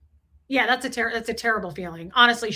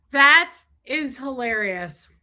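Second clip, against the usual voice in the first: slow, laughing through the words; 3 semitones higher, 5 dB louder, slower than usual. Real, not acted. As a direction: crack up while saying it. Laughing at a chat message.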